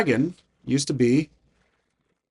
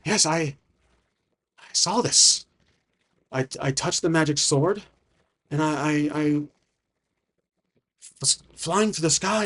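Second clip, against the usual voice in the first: lightly acted, halting account; overwhelmed adventurer; 2 semitones higher than usual. Mortar recounting his arrival to the dragon, halting and overwhelmed. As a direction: stumble and restart, as if still exhausted and scared. Game master voices Mortar.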